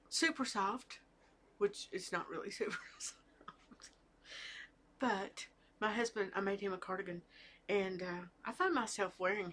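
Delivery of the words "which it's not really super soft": sheepish whisper with a little laugh; whispered aside. Real, not acted. Admitting to viewers the yarn isn't that soft, laughing whisper. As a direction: let it slip out like a confession. Confessing aside after sales pitch.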